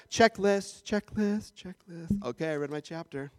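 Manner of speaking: perfunctory, dropping away as if bored; mock rote reading. Preacher mimics dutiful chapter readers, perfunctory and fading.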